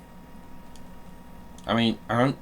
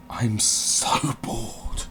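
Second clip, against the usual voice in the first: bored whine; 2 semitones higher, much slower than usual. Real, not acted. Bored groan to viewers.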